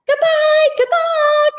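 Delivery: high, loud farewell call. A narrator's reading. Annie waves to the Cro-Magnons, loud calling goodbye. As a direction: call it out the window. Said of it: "Annie called".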